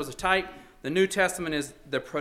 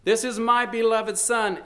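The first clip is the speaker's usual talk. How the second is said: higher and louder heavenly proclamation; God's voice booming out the words; proclaimed shout; 7 semitones higher, 4 dB louder than usual. Acted. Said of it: "shouts out his love from the very heavens".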